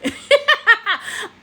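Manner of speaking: high burst of laughter; real laughing. Real, not acted. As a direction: break up laughing at an inside joke. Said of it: "you know why I'm laughing".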